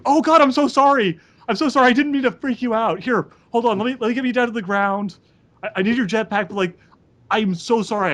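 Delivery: a jittery kind soldier fussing over a scared enemy; nervous nice guy. Acted. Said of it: "this very nervous, very nice guy's like".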